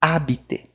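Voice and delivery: "Habiter" starting on A with no breath; French "Habiter", H dropped and R silent. Shown as a demonstration. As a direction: say "Habiter" as "abité". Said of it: "o H não tem função nenhuma".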